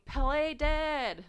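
high, loud pleading cry; retold frantic plea; desperate begging. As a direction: beg him with everything. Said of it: "begging him to play dead".

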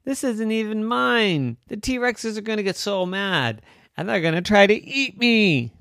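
high, loud panicked wail; panicked kid dinosaur. Acted. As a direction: panic about the broken cup. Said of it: "Stegosaurus said".

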